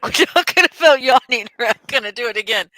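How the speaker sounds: high, giggly protest; giggling insistence to chat; laughing. Real, not acted. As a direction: laugh the words out. Laughing off the yawns.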